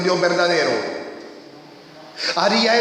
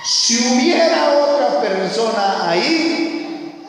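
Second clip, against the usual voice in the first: raised, slower, proclaiming; preaching emphasis; 4 semitones higher, slower than usual. Real, not acted. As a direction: call it out to the congregation. Preacher pressing his point.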